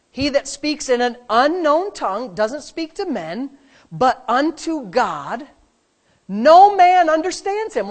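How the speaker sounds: slow, building to a loud high end; slow preached verse; emphatic scripture reading. Real, not acted. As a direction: read the verse with rising force. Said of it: "go with me to verse two".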